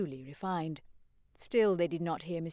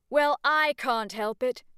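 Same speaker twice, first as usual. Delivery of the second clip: sheepish protest; 6 semitones higher, 6 dB louder than usual. Acted. Freddy caught.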